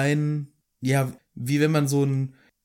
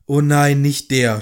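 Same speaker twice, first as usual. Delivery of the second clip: loud, mild mock groan; hammed-up groan; groaned dismay; 6 dB louder than usual. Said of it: "stöhnte Harry".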